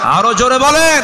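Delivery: high, ringing shout to the audience; full rallying cry, pitched high; shouted crowd prompt. Real, not acted. Repeated, escalated call for louder answer.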